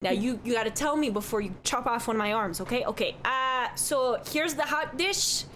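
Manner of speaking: lightly voiced chatty Midwestern barkeep; cheerful innkeeper who says don't you know; folksy bartender. Bartender describing hot dish.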